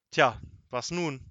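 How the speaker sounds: slow, pondering grumble; a drawn-out, puzzled officer's grumble; grumbling. A narrator's reading. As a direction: stretch it out, at a loss. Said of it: "brummte Wachmeister Dimpfelmoser".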